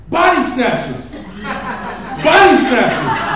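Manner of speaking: drawn-out hollering Body snatchers; mock yell. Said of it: "she yells out".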